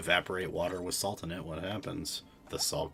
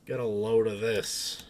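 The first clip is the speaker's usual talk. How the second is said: loud, raised New York twang; New York accent; 4 semitones higher, 6 dB louder than usual. Acted. Streamer trying the phrase out, louder New York accent. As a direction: toss it out like a loud New Yorker. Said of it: "New York accent".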